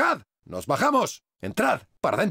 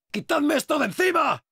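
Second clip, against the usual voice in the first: high, urgent yell; panicked cry for help; 9 semitones higher than usual. Acted. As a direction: beg the squad to pull it off you. Grabbed, calls for help.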